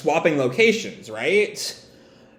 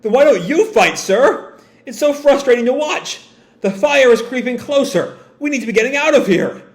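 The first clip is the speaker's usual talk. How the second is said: higher, fast anxious crewman; pirate crewman; 8 semitones higher than usual. Acted. Crewmen question Killer, higher and fast. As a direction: rattle off worried questions.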